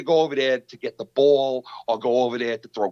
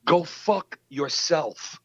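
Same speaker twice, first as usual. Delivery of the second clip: slow, higher-pitched angry retort; retold ballistic tirade; 5 semitones higher, slower than usual. Podcaster retells telling off his rival, ballistic. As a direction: hammer out each insult slowly, retelling the anger. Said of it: "I went ballistic on that asshole".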